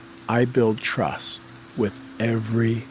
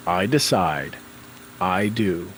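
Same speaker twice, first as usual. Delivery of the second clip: matter of fact; 3 semitones lower than usual. Shown as a demonstration. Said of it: "say it kinda in that tone".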